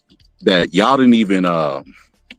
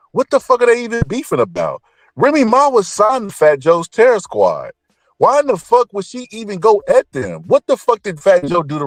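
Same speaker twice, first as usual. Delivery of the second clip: incredulous; 9 semitones higher than usual. Real, not acted. Incredulous rant about beef.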